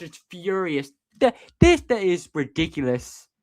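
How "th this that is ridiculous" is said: outraged outburst. Real, not acted. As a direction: choke on the outrage. Outraged at a foul call.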